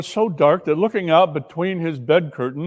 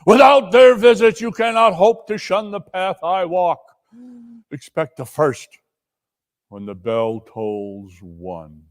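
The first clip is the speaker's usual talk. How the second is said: ghost's warning; 2 semitones higher, 4 dB louder than usual. Acted. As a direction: fade away ominously.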